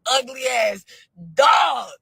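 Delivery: a mock furious rant; retold angry yelling. Caller chewing her out on the phone, mock yelling. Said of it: "He talking about".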